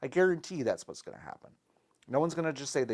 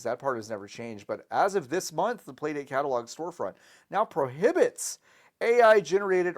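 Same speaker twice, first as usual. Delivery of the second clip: YouTuber voice; 4 dB louder than usual. Acted. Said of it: "You're doing it in the YouTuber voice".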